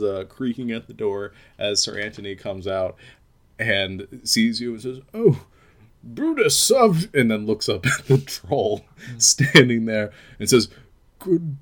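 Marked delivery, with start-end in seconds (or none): 5.1-11.6 high, loud alarmed gentleman; startled nobleman. Acted. Sir Anthony startled by a troll, high alarmed shout. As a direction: cry out in alarm for your sword.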